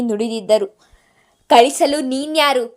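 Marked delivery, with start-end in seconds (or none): 1.5-2.6 arrogant retort. Acted. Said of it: "ಅದೇ ಗತ್ತಿನಲ್ಲಿ".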